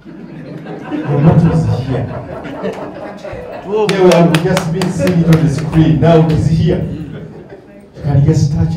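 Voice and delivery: speaking through laughter; chuckling with delight, slow; laughing. Real, not acted. Excited about the Brazilian coaches.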